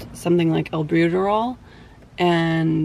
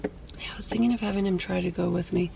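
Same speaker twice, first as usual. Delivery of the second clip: whispering; 7 dB quieter than usual. Real, not acted. Aside to viewer while others talk.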